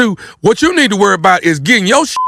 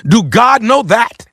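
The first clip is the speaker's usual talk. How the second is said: accusing challenge; 3 semitones higher than usual. Acted. Prank caller challenges the church signer about God, accusing. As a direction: press each question like an indictment.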